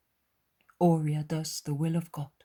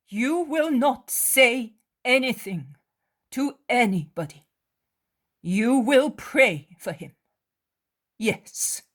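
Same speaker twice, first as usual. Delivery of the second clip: higher, slow, firm but tender; gentle firm mother; 7 semitones higher, 7 dB louder, slower than usual. Acted. Mary telling her friend to pray, not tell.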